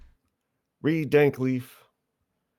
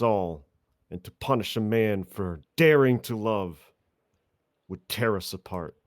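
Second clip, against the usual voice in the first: impassioned courtroom speech. Acted. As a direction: plead to the court with mock gravity.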